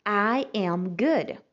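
"I am good" said slowly; slow model. Shown as a demonstration. Teacher repeats the answer for students to copy. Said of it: "bom ou boa".

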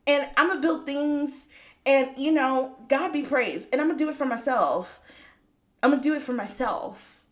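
bubbly high voice of newfound independence; excited resolve. Retold or imitated. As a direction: act out her eager decision. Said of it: "'Cause I was like".

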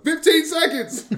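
high, slow squawking parrot. Acted. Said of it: "Who's that? Oh, that's just my parrot".

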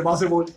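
"baseball" leído ba-se-bol; corrección literal. Retold or imitated. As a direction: di "baseball" con todas las vocales. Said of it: "me lo corregiste". ("baseball" a la española, en tres sílabas)

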